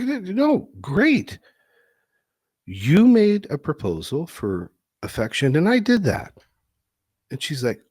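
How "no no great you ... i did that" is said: much higher, eager husband voice; mock proud husband, pitched way up. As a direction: play him pleased with himself. Husband defending himself in story.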